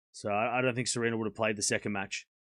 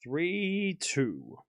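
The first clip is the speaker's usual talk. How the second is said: softer, offhand score repeat; quiet echo; 4 semitones higher, 5 dB quieter than usual. Acted. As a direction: murmur the score to yourself.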